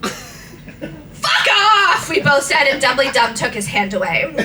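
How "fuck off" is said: high, laughing yell; laughing mock yell. Both yelling at Dumbledore, laughing. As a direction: snap it out through giggles.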